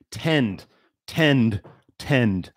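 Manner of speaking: "tend" repeated, each one hit hard with a falling tune; emphasize tend. Shown as a demonstration. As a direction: drill the word "tend" three times, stressing each. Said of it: "I'm gonna emphasize that word".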